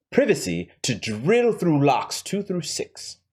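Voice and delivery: lightly voiced scheming villain with a rough accent; Hans. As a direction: lay out the heist deliberately, in character. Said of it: "as badly as my accent is".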